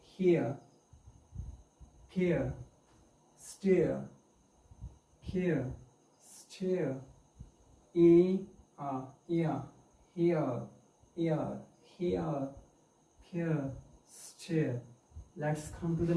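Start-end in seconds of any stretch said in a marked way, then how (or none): 0.0-7.0 "here" and "stare" with no final r; silent r. Shown as a demonstration. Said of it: "Or remain silent". 9.3-14.8 "here" as hee-uh, "stare" without r; silent r. Shown as a demonstration. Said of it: "Or remain silent".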